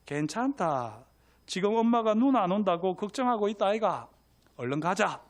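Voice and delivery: little brother reassuring in Gyeongsang dialect. Acted. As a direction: coax her home with a Gyeongsang lilt. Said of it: "경상도 사투리로 할게요".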